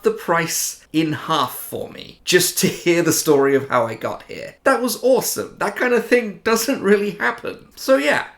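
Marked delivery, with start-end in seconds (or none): 4.6-8.3 higher and louder, thrilled; excited. Real, not acted. Vlogger thrilled telling viewers about the half-price helmet, excited. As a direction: gush about the bargain. Delighted at the discount.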